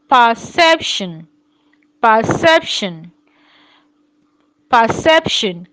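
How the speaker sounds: "perception" said slowly with the pt cluster clear; model word. Shown as a demonstration. Teacher slowly repeating perception for pupils. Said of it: "models word".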